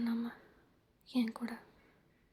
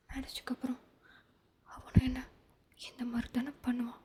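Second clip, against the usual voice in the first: repeated clearly. Acted. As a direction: say it again so he hears it. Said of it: "தெளிவா". (தெளிவாக மீண்டும் சொல்லுதல்)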